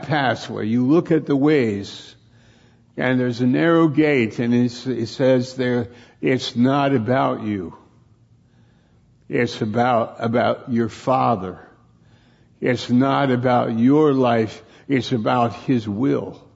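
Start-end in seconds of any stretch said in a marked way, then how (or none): 6.2-16.5 firm, emphatic admonition; strong, insistent correction; coming on strong. Real, not acted. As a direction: preach it to yourself with force. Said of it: "it's coming strong".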